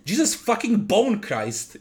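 high, slow startled yell. Acted. Dad jumps at his creepy daughter, a slow high yell. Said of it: "yelled Bonathan".

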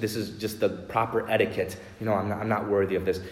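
quick, dismissive, tossed-off politeness; a quick throwaway "I'm not worthy" said out of mere politeness; offhand etiquette. Retold or imitated. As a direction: rattle it off like an empty formality. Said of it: "not just being modest or overly pious".

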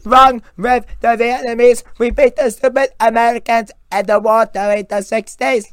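high, loud put-on soldier voice; Vietnamese soldier voice. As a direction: shout it as a proud enemy soldier.

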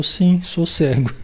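slow, matter-of-fact answer; calm blind reply. Retold or imitated. The blind man answering the rude youth, slow and calm. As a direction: let it land calmly and slowly. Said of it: "Ao que o interlocutor respondeu".

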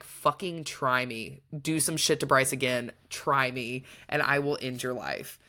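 lightly acted threat through a feral grin. Retelling Hunt warning the Autumn King, low menace. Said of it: "with a feral grin".

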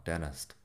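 "Dentist" as "dennest", no T after the n; T dropped. Shown as a demonstration. Teacher testing "Dentist" without its T. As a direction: glide over the first T in "Dentist". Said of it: "¿lo puedo decir o no?".

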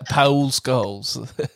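"Paul" as "pa-OOL" in "Paul Scholes"; Paul like Raoul. Shown as a demonstration. Host repeating her favourite swap, Paul Scholes. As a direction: say "Paul Scholes" with a two-beat Paul. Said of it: "instead of Paul".

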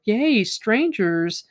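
slow, drawn-out sarcastic cheer; mock the gullible villagers, stretch it out. Mocking the naive cheering villagers.

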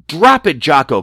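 sharp loud command; crying out. Acted. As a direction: shout it at the monkey. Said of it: "cried Bobby".

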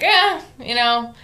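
slow, offhand "eh" of a shrugger; cavalier. Retold or imitated. Describing how he treats deadly work, imitated cavalier shrug. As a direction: shrug it off lazily, imitating him. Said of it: "a very cavalier character".

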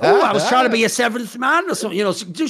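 said through real laughter; laughing. Real, not acted. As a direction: laugh while getting the words out. Mocking the lie with co-host.

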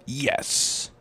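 breathy whispered aside; whispered yes. Real, not acted. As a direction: whisper the admission. Sheepish answer to his own question.

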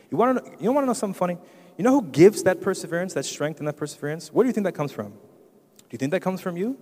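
high, animated rhetorical questions; excited preaching. Real, not acted. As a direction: fire up the congregation with high-pitched questions. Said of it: "I'm getting excited".

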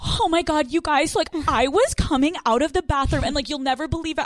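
mock flustered girl. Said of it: "She's like".

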